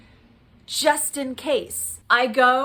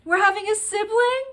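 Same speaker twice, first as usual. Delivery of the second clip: high-pitched joyful disbelief, mildly tearful; retold happy tears; 10 semitones higher than usual. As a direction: imitate excited kids' high, rising question. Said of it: "They're crying and they're like".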